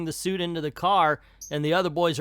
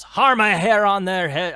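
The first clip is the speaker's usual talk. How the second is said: mock yell; 5 semitones higher, 8 dB louder than usual. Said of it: "And Scrooge yells".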